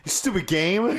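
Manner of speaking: high, loud frustrated insult; angry yell. Retold or imitated. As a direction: snap it at the game, exasperated. Angry rant at the game.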